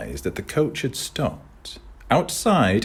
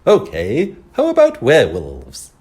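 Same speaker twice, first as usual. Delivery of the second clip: calling out; 7 semitones higher, 11 dB louder than usual. Acted. Voice calling through rain.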